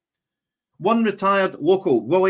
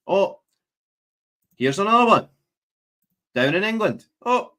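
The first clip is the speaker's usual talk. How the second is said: sarcastic; 3 dB louder than usual. Real, not acted.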